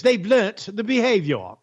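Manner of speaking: lightly put-on mocking voice, parroting the advisor. Shown as a demonstration. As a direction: say it as a light mock of the official line. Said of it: "We have to talk like this".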